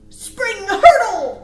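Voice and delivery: high, loud, drawn-out hurdle; leaping call. A narrator's reading. Reading the bunnies leaping, high and loud. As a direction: launch it like a jump.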